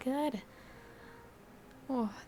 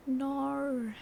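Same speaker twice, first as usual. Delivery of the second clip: drawn-out Aussie "no"; exaggerated Australian vowel, unsure; attempted Australian accent. Shown as a demonstration. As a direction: try a clumsy Australian accent. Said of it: "don't know how you do an Australian accent".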